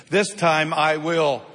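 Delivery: slow, even reading with the congregation; slow group reading. Shown as a demonstration. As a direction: read it out together, slowly. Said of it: "everybody read this with me".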